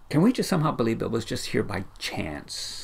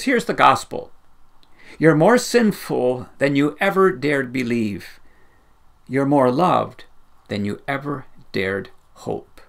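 louder, punchy proclamation of the quote; emphatic quote; 4 dB louder than usual. Retold or imitated. Preacher quoting Tim Keller to the church, emphatic and loud. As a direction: proclaim it boldly. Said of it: "Tim Keller says this".

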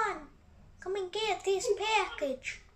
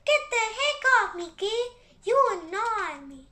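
annoyed; 2 semitones higher, 3 dB louder than usual. Real, not acted. Annoyed at friend pushing.

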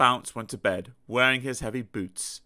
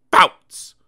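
loud bounce call; 15 dB louder than usual. A narrator's reading. Tennis rally bounces.

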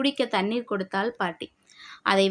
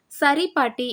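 with a small smile; 5 semitones higher, 4 dB louder than usual. Acted. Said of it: "சிறு புன்னகை பூத்துக்கொண்டு".

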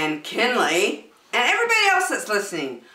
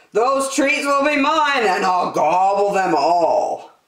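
greedy gloat; 2 semitones higher, 6 dB louder than usual. Acted. Pig gloating over treats.

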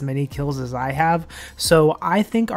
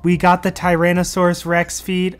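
thrilled celebration; 3 semitones higher, 4 dB louder than usual. Real, not acted. Gamer tells viewers the drop is in, thrilled. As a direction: announce the win like a victory.

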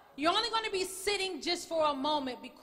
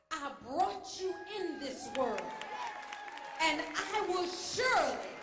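ultimate mama threat; 2 semitones higher, slower than usual. Retold or imitated. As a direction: draw it out, then land the threat. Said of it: "here is the one of all phrases".

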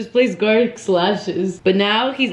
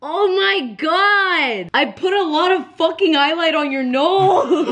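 laughing; 8 semitones higher, slower than usual. Real, not acted. Laughing at the highlight.

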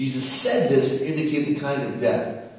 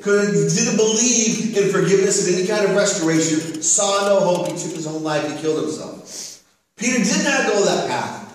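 raised, emphatic sermon delivery; high-energy pulpit storytelling; impassioned preaching; 6 semitones higher, 4 dB louder than usual. Acted. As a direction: preach the story with rising force, landing hard on key words.

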